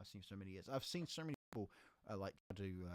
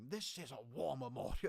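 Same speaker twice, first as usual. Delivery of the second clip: put-on over-the-top upper-crust posh accent; 5 semitones higher, 6 dB louder than usual. Retelling what you said at a war memorial, in the poshest accent possible. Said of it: "with the poshest accent possible going".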